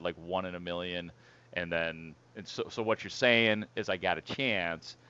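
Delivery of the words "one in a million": quoted line. Retold or imitated. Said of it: "and then she said".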